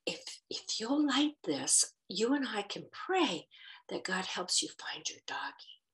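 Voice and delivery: put-on soft, hushed whisper to a little girl; gentle to a child. Kneeling to comfort the girl whose dog was hit, whispered softly.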